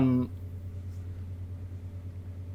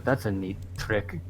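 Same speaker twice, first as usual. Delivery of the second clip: growled low and slow under the breath; slow, quiet snarl at a rival; 6 semitones lower, 9 dB quieter than usual. Acted. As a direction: growl it through the teeth. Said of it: "I growl my breath".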